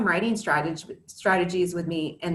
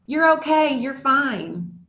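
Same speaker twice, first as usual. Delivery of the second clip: brushing it off; 6 semitones higher, 5 dB louder, slower than usual. Retold or imitated. Parent brushing off child's upset.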